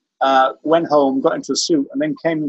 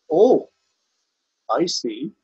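put-on Rhys Vaughan's Welsh accent; much slower than usual. Lawyer plays to the gallery, drawn-out knowing Welsh. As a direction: imitate a Welsh lawyer milking the pause. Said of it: "I can't really do the Welsh accent".

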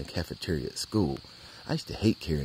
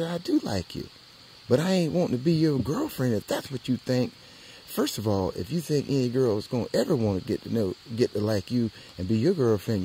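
put-on scolding girl; 4 semitones higher, 5 dB louder than usual. Girl scolds him about showering.

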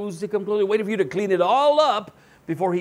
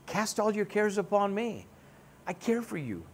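gentle God voice; 3 semitones higher, 5 dB quieter than usual. Pretend. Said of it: "But God says".

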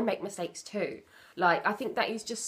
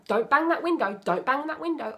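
nagging scold; 3 semitones higher than usual. Retold or imitated. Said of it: "It's not".

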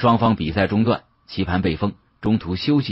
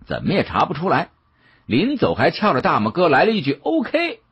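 high, teasing, needling voice of a glib sidekick; cheeky mocking jibe; 6 semitones higher than usual. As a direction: rib him mercilessly, pitching up. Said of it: "要不然的嘴本来就欠".

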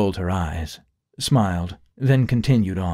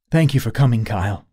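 anxious; 3 semitones higher, 4 dB louder than usual. Acted. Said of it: "Sharita said anxiously".

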